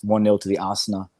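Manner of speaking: put-on Arsenal shortened to Asna in African accent; imitated African accent. Amused by online fans' version, imitated African accent. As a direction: mimic an African-accented football fan. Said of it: "funny sounding to me".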